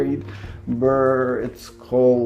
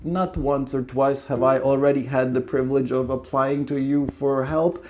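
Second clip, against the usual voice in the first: higher, nervous suitor voice; nervous Lamov; 3 semitones higher than usual. Acted. Suitor stammering his request to his neighbour, nervous and higher. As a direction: fumble and rush like a jittery suitor.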